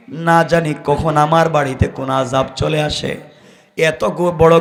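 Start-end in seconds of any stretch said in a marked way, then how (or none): none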